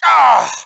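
short grunt on being hit; pained grunt. Acted. Pilot hit in a dogfight, pained grunt. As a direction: grunt as if struck.

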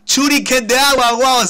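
Shuriken de agua shouted high, loud and drawn out; excited shout. Real, not acted. Gamer shouts the new move his Pokémon learned, thrilled and loud. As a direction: belt out the move name in triumph.

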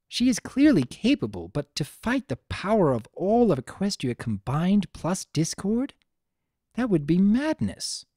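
a royal sister doubting the plan; lightly voiced regal princess. Luna questions her sister.

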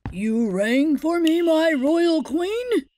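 lightly voiced humble servant; bow and ask, eager to serve; hunter. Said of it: "asked the hunter".

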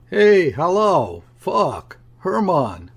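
high-pitched, indignant hail; furious yell. A narrator's reading. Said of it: "I yelled in a fury".

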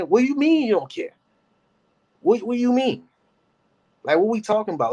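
high, disbelieving outburst; incredulous. Real, not acted. Streamer reacting to the mom in high disbelief. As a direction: rise up in utter disbelief.

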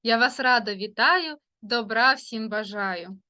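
sing-song rhyming welcome to the class; rhymed greeting. Acted. Teacher greeting her pupils, sing-song rhyme. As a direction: greet the children in a lilting verse.

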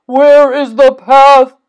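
loud, high wail from Toad; big storybook cry of alarm; distressed cry. A narrator's reading. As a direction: cry out, lost and frantic. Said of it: "cried Toad".

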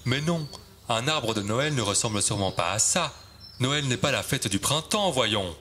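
dismissive fir. Acted. Trees correct the round fir, dismissive. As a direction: brush the silly idea aside.

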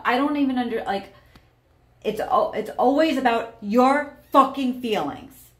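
resentful partner swearing, rising to a shout; bitter anger. Acted. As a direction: spit out the last line. Acted angry partner in demo.

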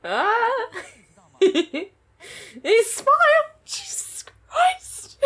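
very high, slow, drawn-out squeal; fangirl squeal. Real, not acted. Viewer seeing the boy smile at last, squealing very high and drawn out. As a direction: squeal it out, utterly overwhelmed. Fan overwhelmed by character smiling.

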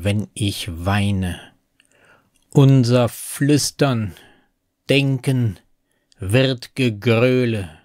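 slow, measured poetry reading with pauses between phrases; poem recitation. Acted. Narrator reciting a poem about city loneliness, slow measured recitation. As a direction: recite it slowly, letting each line fall at the end.

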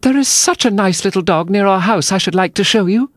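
high-pitched, gushing chatter; eager. A narrator's reading. Alice tells the mouse about a dog, high eager voice. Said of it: "so Alice went on eagerly".

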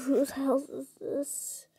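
hushed unvoiced whisper. Real, not acted. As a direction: whisper it, sneaking around. Whispering in strange house.

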